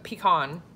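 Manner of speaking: "pecan" said pee-KAHN, stress on the second syllable. Shown as a demonstration. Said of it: "I say".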